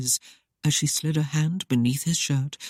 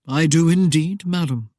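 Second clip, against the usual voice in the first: leisurely drawl; 4 dB louder than usual. Acted. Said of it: "he drawled leisurely".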